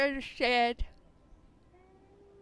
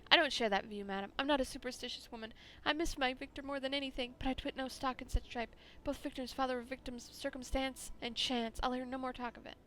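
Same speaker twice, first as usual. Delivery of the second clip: haughty widow; 3 dB quieter than usual. Acted. Widow rebuffs superstition.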